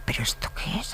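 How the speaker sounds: a startled whisper to herself; whispered panic. Retold or imitated. Actriz novata en su primera clase, susurrando asustada. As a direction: breathe the words out, alarmed. Panicked thought in first class.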